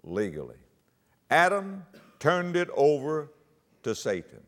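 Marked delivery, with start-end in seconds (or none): 0.0-0.6 "legally" set apart after a pause, low and soft; a low, deliberate "legally"; emphatic single word. Real, not acted. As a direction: drop low and place "legally" by itself. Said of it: "Emphasis on the word".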